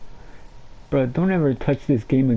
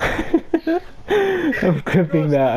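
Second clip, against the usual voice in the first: laughing; 3 semitones higher, much slower than usual. Real, not acted. Laughing at highlight.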